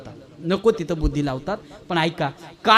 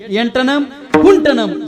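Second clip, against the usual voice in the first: slow, loud, higher chant with -am endings; mock Sanskrit; 4 semitones higher, 6 dB louder, slower than usual. Shown as a demonstration. Preacher turns "where is the tool" into slow, loud mock Sanskrit. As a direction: intone it as grand pseudo-Sanskrit. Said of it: "Sanskrit कळतंय का".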